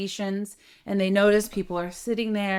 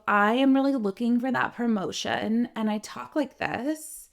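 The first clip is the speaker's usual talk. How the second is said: higher, younger-sounding voice; girlish, higher-pitched speaking voice; youthful sound; 4 semitones higher than usual. Shown as a demonstration. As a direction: sound younger than you are. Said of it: "it's not gonna give me that mature sound".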